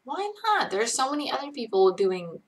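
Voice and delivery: retelling her own baffled protest at the ban; indignant why not. Retold or imitated. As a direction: squeak out the outrage, then argue it. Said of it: "I was like".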